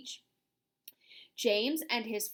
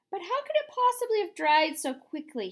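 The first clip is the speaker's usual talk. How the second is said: surprised question; 7 semitones higher, 5 dB louder than usual. A narrator's reading. Grasshopper asks.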